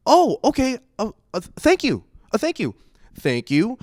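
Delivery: high, stammering, polite retreat; flustered missionaries. Retold or imitated. Missionaries backing away from the door, flustered imitation. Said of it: "And they were like".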